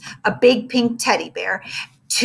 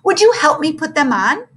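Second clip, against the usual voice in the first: flirty librarian voice; 8 semitones higher, 5 dB louder than usual. Acted.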